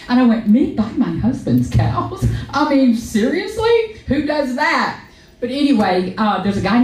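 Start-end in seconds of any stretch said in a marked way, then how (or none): 0.5-5.0 mock disbelief at buying her own husband's cows; incredulous. Wife mocks her own disbelief, pitch soaring on seriously. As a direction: pitch leaps high on seriously, drawn out slow.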